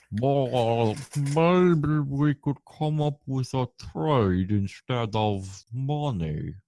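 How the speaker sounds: lightly mumbled Brando voice; slow mumble like marbles in mouth; Marlon Brando with marbles in mouth. Acted. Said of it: "going for a Marlon Brando, but with marbles in his mouth".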